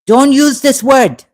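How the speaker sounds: indignant outburst at repeated harassment; real anger. Real, not acted. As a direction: push back hard at the harasser, voice rising. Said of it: "You want to get me angry".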